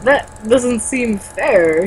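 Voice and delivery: lightly done slow Walken drawl; halting, slow, odd pauses; Christopher Walken. Acted. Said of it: "read him like Christopher Walken is voicing him".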